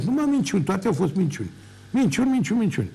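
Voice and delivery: indignant outburst. Real, not acted. Furious denial of accusations.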